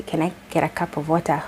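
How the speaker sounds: "water" in a plain Kenyan accent. Shown as a demonstration. Kenyan showing what Americans fail to understand, Kenyan accent. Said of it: "But ukisema ati".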